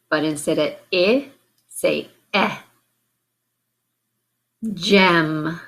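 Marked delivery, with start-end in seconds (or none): 0.9-1.3 I as the short "ih" in win; isolated vowel sound. Shown as a demonstration. Teacher naming the vowel to swap, I said as short "ih". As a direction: say I as a lone "ih", not "eye". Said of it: "change the vowel sound".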